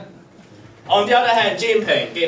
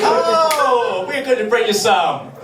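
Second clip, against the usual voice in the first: put-on posh English accent; 8 semitones higher, 4 dB louder, slower than usual. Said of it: "saying in perfect English accent".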